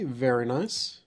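normal talking voice

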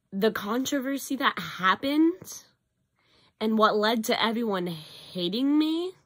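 rough, worn-out voice; hoarse voice. Real, not acted. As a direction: voice going from a cough. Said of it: "kinda losing my voice a bit".

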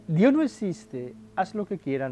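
a preacher hamming up a careless atheist; mock atheist boast. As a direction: throw out the atheist's slogan with scorn. Voicing the atheist's claim.

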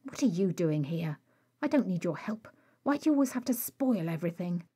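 sharp, fast and bitter, rushing the last line; spat out angrily. Acted. Rag snapping at Bones for turning up, angry and fast. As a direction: fire the words out like a shot. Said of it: "spat his words out like a shot".

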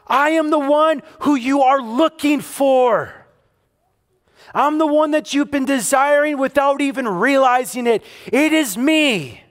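fervent preaching in Jesus' voice; impassioned Jesus voice. Acted. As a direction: press it home with passion. Jesus reveals himself, preacher proclaims.

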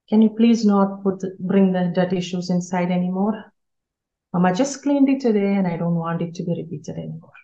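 calm and unhurried, no yelling; slow, calm voice. Shown as a demonstration. Mom calmly asking child to leave dirty shoes outside. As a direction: gently tell the child what bothers you. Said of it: "you said that in a slow, calm voice".

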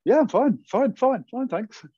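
high, loud, overly chirpy fine fine fine; mock over-cheery. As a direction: sound wired and way too happy. Imitating her wired, too-cheery self.

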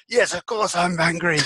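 a hint of an irritated snap; mock angry retort. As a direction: play the offended angry person. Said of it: "it's like".

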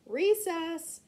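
high, loud burst of glee; excited exclamation. A narrator's reading. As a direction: call it out eagerly for break time. Bell rings, recess is exclaimed.

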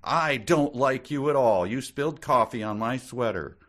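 mock bickering, high and loud; hammed-up indignant strangers squabbling; angry meet-cute. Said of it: "being sort of angry at each other".

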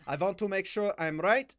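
lightly put-on Slavic accent; playful touch of Slavic accent; mock Eastern European accent. Repeats line in mock accent.

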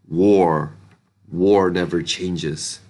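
low, slow gravelly trailer voice; quoted movie line. Retold or imitated. Book reviewer slipping into a famous trailer line, low and slow. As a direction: intone it like a game trailer narrator. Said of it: "Sorry, I couldn't resist".

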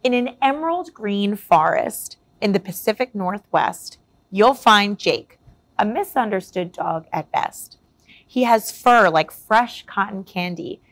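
rhyming picture-book read, lively and clear; story narration. A narrator's reading. Reading a rhyming tale to young listeners, lively storyteller voice. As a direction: read it like a bedtime story to kids.

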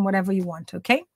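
ordinary delivery

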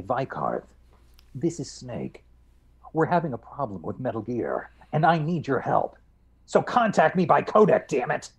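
video game hero's urgent radio plea; gruff soldier's call for help, growing urgent; Snake. Acted. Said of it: "Is there anything Snake can say".

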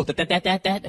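a light stuttered that, that, that; mock himself with a cartoon stammer; Porky Pig stutter. Mocking his own stammer like Porky Pig, lightly stuttered. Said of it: "I sound like fucking Porky Pig".

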